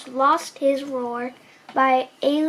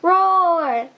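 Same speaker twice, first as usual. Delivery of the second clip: dinosaur roar; 3 semitones higher, 4 dB louder than usual. Acted. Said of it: "He'd roar at sticks".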